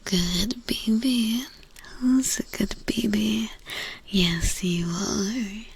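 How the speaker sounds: slow whispered coo. Real, not acted. Cooing to a pet.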